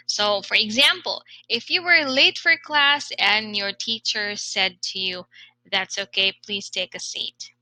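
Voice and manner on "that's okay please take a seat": "please take a seat" dropping away softly; falling tone. Acted. Unhappy teacher to a late student, falling tone. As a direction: let "okay" and "seat" fall, unhappy. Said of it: "said it with a falling tone".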